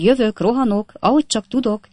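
Jingle's rapid patter on the move; clipped chatter. A narrator's reading. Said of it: "kiáltott egy hang".

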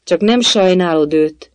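slow, high question; aghast. A narrator's reading. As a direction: ask it in stunned disbelief. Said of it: "kérdezte dermedten a nyuszi".

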